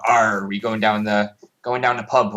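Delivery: a hint of West Country Bristolian, slowed down; Bristolian pirate accent. Shown as a demonstration. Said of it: "the traditional sort of pirate sounding voice".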